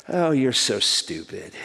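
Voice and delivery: laughing affectionately. Retold or imitated. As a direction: tease him fondly while laughing.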